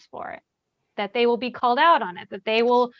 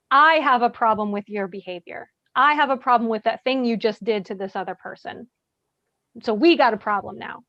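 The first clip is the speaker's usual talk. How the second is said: firm call-out; 3 dB louder than usual. Shown as a demonstration. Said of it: "when I say something loud".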